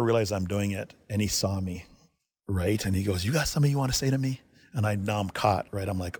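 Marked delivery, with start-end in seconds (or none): 3.2-4.4 quick, higher-pitched retold challenge; quick mock confrontation; needling challenge. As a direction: imitate a coach picking at someone. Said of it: "he's just needling me".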